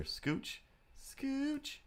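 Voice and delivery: breathy whisper, rising high; whispering scooch to the cat; whispered coax. Real, not acted. Nudging the cat.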